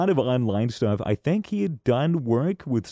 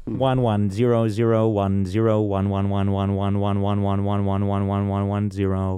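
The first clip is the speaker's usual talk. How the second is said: lower, monotone robot counting binary; 4 semitones lower than usual. Pretend. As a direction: read the digits like a machine. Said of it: "he communicates only in binary now".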